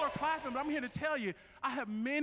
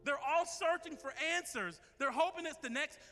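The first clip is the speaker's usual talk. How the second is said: heartfelt prayer. Acted. Pastor leads closing prayer.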